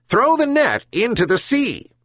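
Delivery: high, commanding bird voice; gull voice. Acted. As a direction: order it as the gull. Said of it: "the herring gull said".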